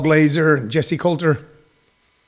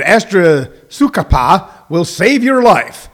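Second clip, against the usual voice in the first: slow, drawn-out ad voice; commercial announcer; slower than usual. Retold or imitated. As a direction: sell it like a TV drug ad. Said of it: "on the commercial when they're saying".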